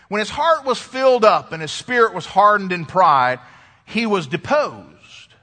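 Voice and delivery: dramatic scripture reading. Acted. Preacher reading the king's downfall to the congregation, measured and emphatic. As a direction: read it solemnly, stretching the key phrases. Reads scripture recap aloud.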